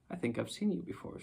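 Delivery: put-on a girl half asleep, content and drifting; dreamy, contented. A narrator's reading. Girl waking in the wood, speaking dreamy and content. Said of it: "she spoke in a dreamy, contented sort of voice".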